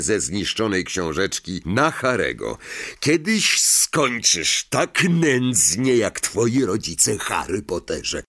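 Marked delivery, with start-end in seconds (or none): 3.0-8.2 gritted threat. Acted. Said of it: "wycedził".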